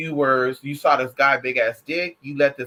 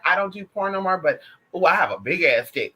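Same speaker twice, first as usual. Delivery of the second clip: mock macho brag. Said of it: "who's talking like that".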